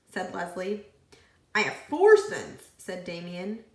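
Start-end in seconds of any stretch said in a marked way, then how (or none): 1.6-2.7 put-on loud child. A narrator's reading. Child voiced in story.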